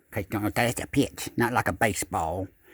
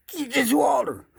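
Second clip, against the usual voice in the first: very high, loud cry; booming holler over the lake; echoing call; 4 dB louder, slower than usual. Retold or imitated. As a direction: call so it echoes across the lake. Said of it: "it echoed across that lake".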